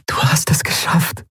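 breathy whisper into his ear. Acted. Endriel hugging her friend, whispering into his ear. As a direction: whisper it, close and private. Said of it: "flüsterte sie ihm ins Ohr".

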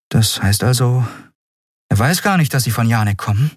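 probing, suspicious question; young woman, skeptical. Acted. Endriel questions the Skriar, skeptical.

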